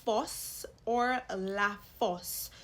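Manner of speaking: fosse slowly, with an open aw; open O sound. Shown as a demonstration. Teacher giving a grave accent example, slow open O. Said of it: "as in the word".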